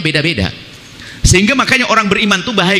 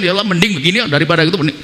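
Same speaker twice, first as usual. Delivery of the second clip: despairing prayer; faster than usual. Retold or imitated.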